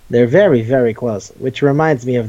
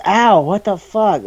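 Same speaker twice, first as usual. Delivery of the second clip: high, slowed mock yelp of pain; imitating a startled victim, lightly done; mock pained protest; 6 semitones higher, slower than usual. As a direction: play the guy caught in the arm bar, hammed up. Retelling arm bar victim's reaction.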